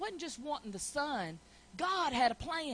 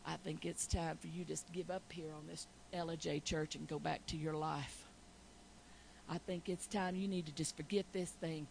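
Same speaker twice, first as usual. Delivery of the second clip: lightly voiced smug devil, softer; cocky devil; 5 semitones lower, 5 dB quieter than usual. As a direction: coax her to give up, smug and low-key. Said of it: "all cocky over there like".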